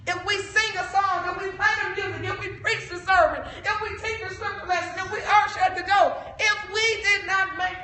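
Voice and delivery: building sermon list. Real, not acted.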